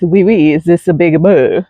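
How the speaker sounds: mock French. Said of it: "say it French".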